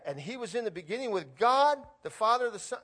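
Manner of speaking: high and loud, thrilled; preacher acting out a thrilled Bible reader; excited reading. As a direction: rush of discovery. Voicing an amazed reader.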